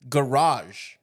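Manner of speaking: garage said as one clipped syllable, grahzh; one-syllable demo. Shown as a demonstration. Host showing the Lisa way to say garage. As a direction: squash garage into a single syllable. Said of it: "One syllable".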